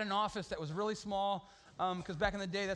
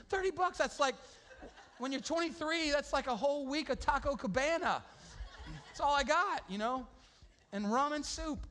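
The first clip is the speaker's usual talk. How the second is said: excited aside; 7 semitones higher than usual. Real, not acted. Excited aside about money.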